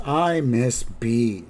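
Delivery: slow, understated lament; a touch of mock gloom; mildly depressed. Lonely Grandpa missing B, mildly downcast. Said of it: "He's just kind of depressed".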